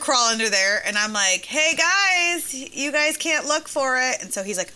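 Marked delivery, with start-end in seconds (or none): 1.4-4.2 put-on high, sing-out call to kids; retold calling out. Mom re-enacts stopping kids at the trampoline, calling out.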